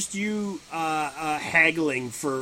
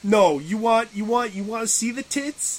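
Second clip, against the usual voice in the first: raised, put-on dealer voice; pushy haggler; 4 semitones higher, 3 dB louder than usual. Agent working a buyer over commissions, pushy mock haggling. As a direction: pitch it like a pushy hustler.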